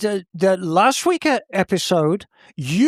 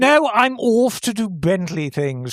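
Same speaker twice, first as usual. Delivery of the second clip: posh voice. Pretend. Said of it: "you're not going total pusho on us".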